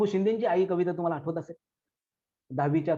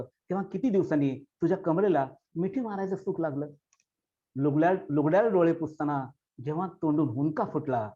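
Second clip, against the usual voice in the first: poem recitation. Acted. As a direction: recite as a daughter addressing her dead mother. Recites long poem over music.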